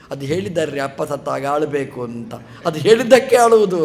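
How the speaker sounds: imitating a son who cries only because told to; amused mock explanation of fake tears; laughing mockery. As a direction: laugh through the quoted excuse. Mocking son who cries on cue.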